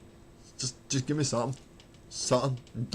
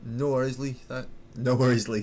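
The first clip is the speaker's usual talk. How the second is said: put-on stuck in Glaswegian accent; 4 dB louder than usual. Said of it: "I got stuck in the accent then".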